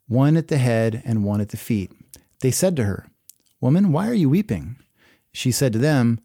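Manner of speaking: measured, solemn reading of the Gospel; steady scripture read. Acted. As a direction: read the passage aloud to the congregation. Reads the scripture passage aloud.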